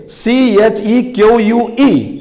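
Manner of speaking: letters C H E Q U E spelled slowly one by one; slow spelling dictation. Shown as a demonstration. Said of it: "जैसे चेक".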